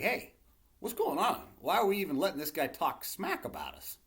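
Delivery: put-on a bold teenager calling out the giant's trash talk; cocky attitude. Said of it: "I love that attitude".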